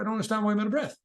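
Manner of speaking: ordinary talk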